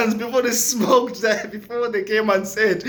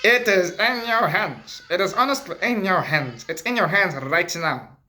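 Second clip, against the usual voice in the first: solemn Mandela voice. Retold or imitated. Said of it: "and be like".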